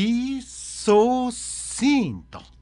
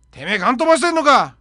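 thug's challenge; 3 semitones higher, 6 dB louder, much faster than usual. Acted. Thug picking a fight.

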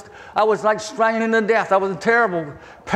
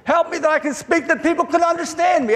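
retold plea to God, pitched higher; pleading prayer; 5 semitones higher than usual. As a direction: plead upward as if praying for help. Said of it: "and so I pray".

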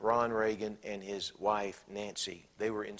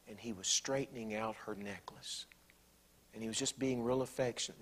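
soft hushed; 7 dB quieter than usual. Real, not acted. Tender memory, whispered.

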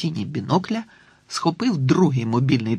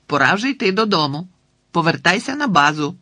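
louder calling command; calling the dog; 4 semitones higher, 4 dB louder than usual. Acted. Boy calling his dog back over the phone, loud. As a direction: call her home firmly.

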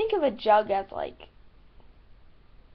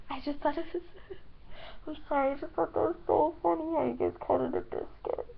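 giggling through an apology; real laughter breaking into the words; laughing; 4 semitones higher, 4 dB quieter, faster than usual. Real, not acted. Laughing at how viewers say biscuit.

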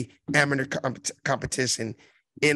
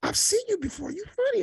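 hushed and softer, pitched up; retold whisper; 11 semitones higher, 7 dB quieter than usual. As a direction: mimic a hushed word in the ear. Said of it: "He whispered in my".

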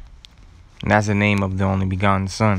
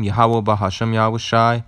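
recited name list. Shown as a demonstration. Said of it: "just gonna repeat it one more time".

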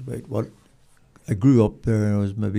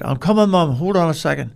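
higher, raised reply to a distant mother; calling back; 5 semitones higher than usual. Retold or imitated. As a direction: shout back that you're coming. Son calls back to mother.

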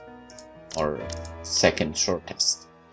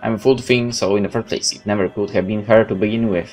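dramatic first-person game narration, louder than chat; story narration; 4 dB louder than usual. Acted. Player reading a game's story aloud, dramatic narration. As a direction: tell it like a dramatic tale.

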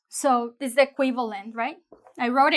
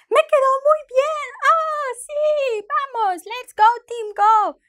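much higher, cheering like a fan; exaggerated excitement; 12 semitones higher, 5 dB louder than usual. Shown as a demonstration. Shopper overjoyed, cheering like at a game. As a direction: go over the top with joy. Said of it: "you make your exaggeration face".

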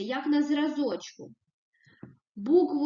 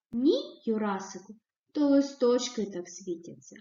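calm, even; 2 semitones lower than usual. Shown as a demonstration. Teacher reads mother calmly answering Yurasyk. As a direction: settle it down, gently and evenly. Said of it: "зі спокійною, врівноваженою".

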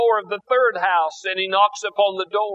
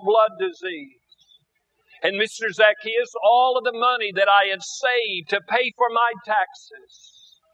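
weeping plea; 3 semitones higher than usual. Acted. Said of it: "She begins to weep and declares".

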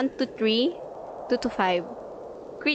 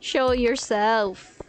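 slow mock calling; 2 semitones lower than usual. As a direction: draw the words out slowly, calling into the cave. Calling out for the hidden ladder.

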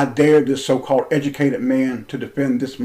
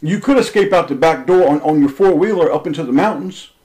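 retelling a raised voice at Martin; 3 semitones higher, 3 dB louder than usual. Retold or imitated. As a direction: lean on him with a raised voice. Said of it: "I raised my voice to Martin and said".

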